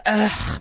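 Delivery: imitated put-out "ugh"; low throaty sound of reluctance; disgruntled grunt. Bakery worker showing reluctance to customer, grudging grunt. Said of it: "Like this".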